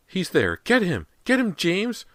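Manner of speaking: very high, loud scream; frantic scream. A narrator's reading. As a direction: scream it at the wall. Mother screaming.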